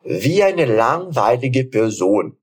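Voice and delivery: very slow, clear model phrase for repeating; slow teacher demo; slow drill reading. Shown as a demonstration. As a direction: read it out slowly for students. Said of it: "Agora a frase inteira".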